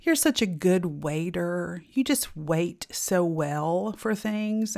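slow, drawn-out mock praise; sarcastic. Husband teasing his impatient wife, slowly sarcastic. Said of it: "my husband likes to say sarcastically".

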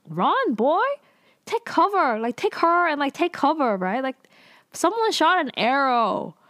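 high, urgent exasperated yell; frustrated yelling. Real, not acted. Viewer yelling at the hero to take cover, exasperated high yell. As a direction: yell at him to get out of there.

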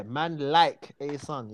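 slow, laid-back attitude; chilled London attitude. Shown as a demonstration. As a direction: let it roll out slow with attitude.

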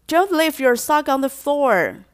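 slow, loud first warning; "Don't" leaned on loudly and slowly; scolding reminder. Shown as a demonstration. Parent nagging a kid about socks, loud. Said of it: "第三句的时候呢".

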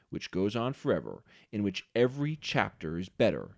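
steady, measured reading of the passage; reading a quote aloud. Acted. Host reading the book's final lines to his cohost, measured and formal. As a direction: read it out to end the show, with a light formal cadence.

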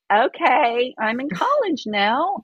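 high, slow, drawn-out resignation; bemused acceptance. Retold or imitated. Acts out her bewildered acceptance.

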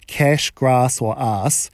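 "grass" and "ass" with a long New Zealand "ah"; New Zealand vowels, long open a in "grass"; New Zealand accent. Shown as a demonstration. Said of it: "as we would say in New Zealand".

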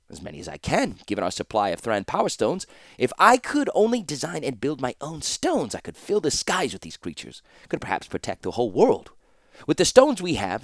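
amused master explaining his prototype; a lightly voiced inventor, pleased with himself; proud old inventor. Master dreams of his creations.

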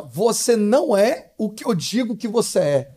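slow, imitated motherly rebuke; retold stern admonishing. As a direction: spell it out like a mother scolding. Mother hits son with Bible, admonishing.

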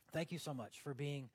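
softly spoken, unadorned prayer; conversational prayer. Shown as a demonstration. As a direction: thank someone sitting close by, gently. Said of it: "when you talk to Jesus".

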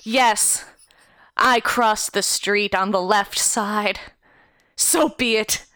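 slow, grand noble speech; lightly voiced haughty noble; pompous speech.

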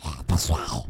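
squawky cartoon duck voice; Donald Duck voice. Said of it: "Só idiota faz voz, voz de Pato Donald".

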